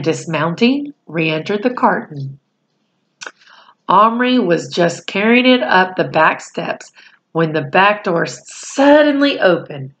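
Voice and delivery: put-on reading a chapter aloud to children; steady storyteller voice for a class; story narration. A narrator's reading. Reads the novel aloud.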